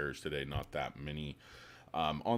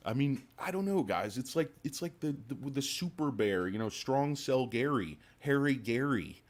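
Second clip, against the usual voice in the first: higher, louder mocking; mocking rant; 8 semitones higher, 5 dB louder than usual. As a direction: jeer at the bear, slowing at the end. Mocking the super bear.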